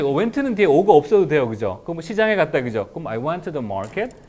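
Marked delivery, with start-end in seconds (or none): 3.1-4.2 very slow, spelled-out English; slow model sentence. Shown as a demonstration. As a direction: model each word slowly for learners. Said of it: "내가 쭉 요 순서대로 할게요".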